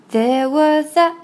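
WAS A run together as wuh-za; slow THERE WAS A, s joined to a; linked sounds. Shown as a demonstration. Teacher shows how s and a link, linked sounds. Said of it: "s和a连读成za".

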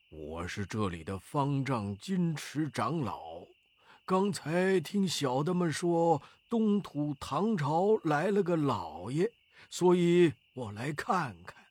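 put-on an old abbot introducing himself; a hint of an old abbot's voice; lightly voiced old monk. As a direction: lightly play the elderly head monk.

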